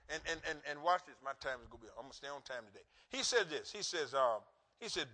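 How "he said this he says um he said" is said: ordinary talk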